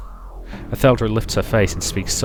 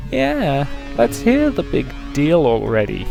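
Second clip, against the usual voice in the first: high, creepy clown voice; 6 semitones higher, slower than usual. Acted. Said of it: "a kind of high-pitched, creepy clown voice".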